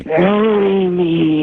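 slow eerie ghost voice; scary voice. Retold or imitated. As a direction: stretch it out like a ghost. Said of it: "really scary voice".

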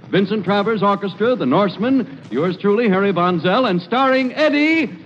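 booming show opener, building to the star's name; 1940s network announcer, hitting the star billing hard; radio announcer intro. Acted.

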